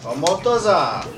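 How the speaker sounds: Omotoza said as mock Japanese, slow and stretched; fake foreign language. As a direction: call out Omotoza like a made-up Japanese word. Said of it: "that's not Japanese. It's just sounds".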